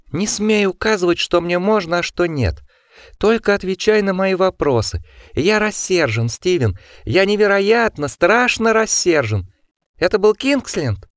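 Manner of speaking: high, seething furious voice; shrill controlled fury. A narrator's reading. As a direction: rage through the teeth, shrill. Osmond raging at Steven.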